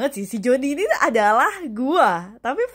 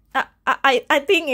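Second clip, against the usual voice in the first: stammered I, I, a little louder; stuttering shy voice; 2 semitones higher, 5 dB louder, slower than usual. Shown as a demonstration. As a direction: show how a shy boy should stammer. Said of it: "Mestinya ngomongnya tuh kayak". (mencontohkan suara pemalu yang tergagap)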